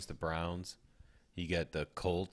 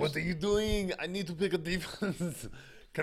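exasperated; 11 semitones higher than usual. Real, not acted. App glitching during the draft.

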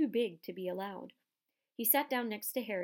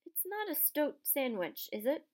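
mildly worried, higher, slow question; anxious; 6 semitones higher than usual. A narrator's reading. Harry asking Hagrid about his present, anxiously. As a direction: ask warily, hoping for a no. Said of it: "said Harry anxiously".

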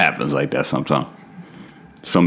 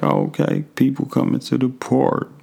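slow motion voice; 6 semitones higher, 3 dB quieter than usual. Pretend. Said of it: "I'm talking in my slow motion voice".

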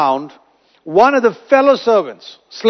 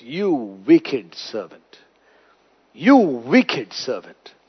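lower, softer, slow stern master; stern rebuke; 8 semitones lower, 4 dB quieter, much slower than usual. Retold or imitated. The master condemns the ungrateful servant, low and stern. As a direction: rebuke him coldly and slowly. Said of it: "calls him a word".

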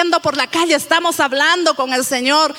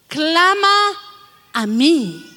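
voice of God; 6 semitones lower, slower than usual. Acted. God's words quoted in sermon.

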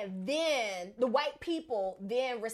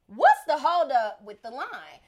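impatient shout; 2 semitones higher, 11 dB louder, slower than usual. Retold or imitated. Impatient customer in a line.

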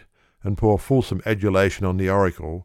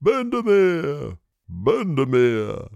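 high, slow, drawn-out cheer of the name; feverish cheer; 7 semitones higher, much slower than usual. A narrator's reading. Oracle cheering Bendemeer, slow and high. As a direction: urge the horse home. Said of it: "takes up the cry feverishly".

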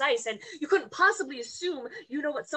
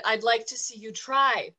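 firm, louder emphatic dare; repeated louder taunt; 3 dB louder than usual. Acted. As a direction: say it again so he hears it. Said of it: "I said".

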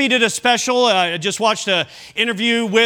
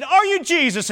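imitated British little girl, higher pitch; British accent; 7 semitones higher than usual. Little girl asking a man if he's Jesus, in a British accent. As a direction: put on a high British accent for the question. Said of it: "in the British accent".

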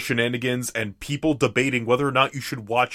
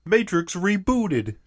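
spooky voice; 10 semitones higher, slower than usual. Acted. Spooky voice sneaking up on co-host.

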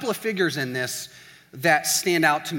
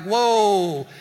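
loud, raised, drawn-out whoa; mock shock at an outburst; startled; 5 semitones higher, 7 dB louder than usual. Friend reacting to caffeinated outburst, startled.

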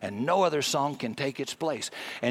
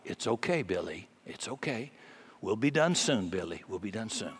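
softer, hushed comfort; quiet soothing; 5 semitones lower, 7 dB quieter than usual. Retold or imitated. Father hushing his cranky toddler, quietly. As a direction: soothe a fussy child under your breath. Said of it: "the father is whispering quietly".

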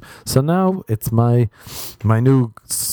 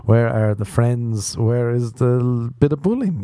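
slow, drawn-out incredulous questions; exasperated disbelief; slower than usual. Retold or imitated. Comic voicing his own disbelief at the teen, slow and incredulous. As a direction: plead at the absurdity, spelling out each question. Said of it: "And you're just like".

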